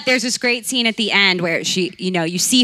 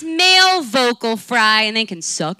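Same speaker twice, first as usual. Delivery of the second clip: emphatic; 3 semitones higher than usual. Real, not acted. Co-host naming what the voice is, emphatic.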